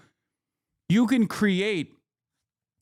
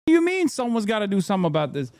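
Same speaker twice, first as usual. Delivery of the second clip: incredulous; 4 semitones higher, much faster than usual. Real, not acted.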